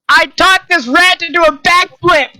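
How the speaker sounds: high-pitched in-character boast; Augustus. Acted. Augustus shows the boatman his feat, high character voice. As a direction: proudly announce it in a high voice.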